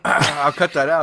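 talking through coughs; coughing after inhaling beer; choking on a drink. Real, not acted. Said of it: "I breathed in some beer".

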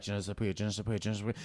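low, soft repetition under the breath; quiet mock self-prompting on a loop; muttered rehearsal. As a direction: imitate nervously memorizing a line. Imitates silently rehearsing one line.

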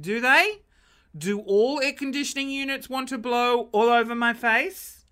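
incredulous. Retold or imitated. Mock indignant reply to husband.

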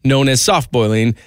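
slow, grand Shakespearean reading; hammy stage actor. Acted. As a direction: declaim it like an old stage actor. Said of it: "in Shakespearean".

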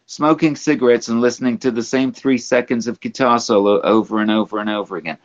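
lightly imitated rock star reading his memoir; a hint of a rambling rocker impression; a rock singer. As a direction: read it as the old rock star, lightly put on. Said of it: "I'm gonna go back into the verse".

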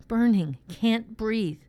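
high, distressed short bursts; acted pained panic; faltering breath. A narrator's reading. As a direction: struggle to get the words out in pain. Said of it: "then his breath faltered".

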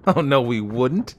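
loud, slow, eager assertion. A narrator's reading. Amateur plainsman reassures the girl, eager. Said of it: "he asserted with all the eagerness".

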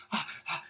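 mock panicky gasps, soft; panicked gasps. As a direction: gasp helplessly, imitating her panic. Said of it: "She opens the door in a panic".

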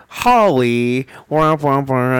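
muffled trombone-like wah wah; muffled wah wah talk. Retold or imitated. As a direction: mimic a Charlie Brown adult. Imitating friend's garbled waking voice.

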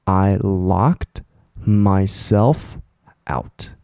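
慢慢地演示"I locked myself out"，像忘带钥匙的人; 放慢每个词，演出被锁在门外的懊恼; demo exclamation. Shown as a demonstration. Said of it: "听好哦". (老师示范被锁门外时该怎么说，慢慢演出来)

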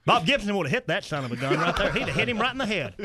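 worked-up comic uncle voice; ranting uncle. Acted. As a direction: rant like a die-hard old fan. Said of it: "That's all he ever talks about".

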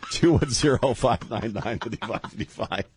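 reading numbers through leftover giggles; fighting back laughter; after laughing hard. Real, not acted. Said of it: "Oh, my stomach hurts".

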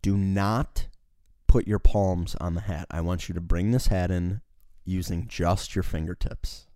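imitating a boss, measured and pausing; retold fussy orders. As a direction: lay down the rule in careful pieces. Imitating boss's fussy hat instructions.

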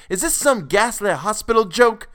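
high, loud outraged demand; thundering rage. A narrator's reading. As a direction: roar it in horrified fury. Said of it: "thundered Mister Bolton".

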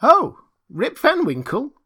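very high, loud, drawn-out recognition; villagers exclaiming. A narrator's reading. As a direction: exclaim it brightly as eager bystanders. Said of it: "exclaimed two or three".

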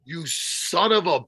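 slow, drawn-out mock accusation; a friend faking offence over a joke; mock outrage. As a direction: drag it out like fake fury.

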